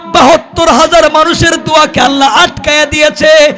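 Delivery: very high, loud chanted shout; full-force chanted scolding, pitched far up; thundering preacher's rebuke. Acted. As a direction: drive the sinner out in a ringing sermon cry. Preacher chants divine refusal and rebuke.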